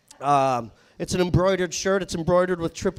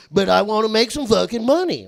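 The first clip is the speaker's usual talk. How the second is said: loud, higher redneck complaint; Jacob's redneck protest; 4 semitones higher, 8 dB louder than usual. Retold or imitated. Coworker demanding money anyway, loud redneck protest. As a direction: insist in a thick redneck accent. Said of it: "like a shitty redneck juggalo".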